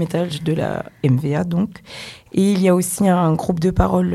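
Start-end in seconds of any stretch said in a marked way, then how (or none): 2.3-4.1 sick, hoarse voice; rough throat from a cold. Real, not acted. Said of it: "ma voix est catastrophique".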